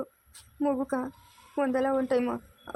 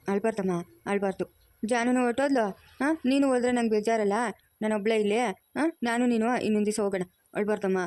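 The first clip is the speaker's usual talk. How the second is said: soothing; 3 semitones lower than usual. Acted. Grandmother soothing crying grandchild.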